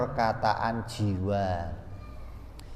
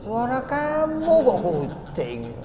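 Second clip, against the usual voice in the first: high-pitched incredulous question; mock disbelief; 12 semitones higher than usual. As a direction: act baffled, voice jumping way up. Teacher acts puzzled challenge about meow. (pura-pura heran dengan nada tinggi)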